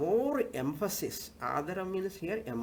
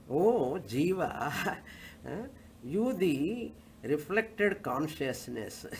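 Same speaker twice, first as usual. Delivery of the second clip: scripture addressing the soul; slower than usual. Acted. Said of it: "Shastra is addressing".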